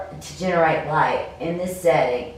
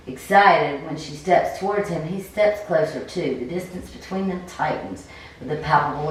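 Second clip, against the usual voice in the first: game master narration; 2 semitones lower than usual. Acted. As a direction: paint the scene, unhurried.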